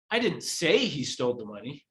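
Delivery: HE betont hervorgehoben; stress on HE. Shown as a demonstration. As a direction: lean on the word he. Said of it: "depending on which word I emphasize".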